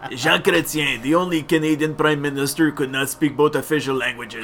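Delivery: put-on French accent that lands near Russian; attempted French accent. French Canadian mimicking Jean Chrétien, muddled French accent. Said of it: "doing a French accent? But you sound Russian".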